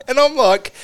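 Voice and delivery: high laughing disbelief. Real, not acted. Laughing incredulous rant.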